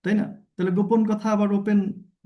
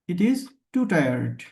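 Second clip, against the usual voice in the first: too tired drawn out; much slower than usual. Shown as a demonstration. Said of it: "আবার উচ্চারণটা এমন, too tired".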